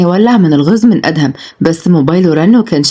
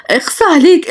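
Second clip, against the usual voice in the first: reproach; 11 semitones higher than usual. Acted. Jealous woman scolding husband figure.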